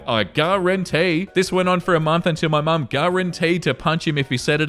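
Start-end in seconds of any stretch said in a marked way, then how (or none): 0.1-1.3 slow, drawn-out mock Southern guarantee; lightly imitated Southern drawl; Southern accent imitation. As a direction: ham up a TV Southern cook accent. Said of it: "in a ridiculous Southern accent".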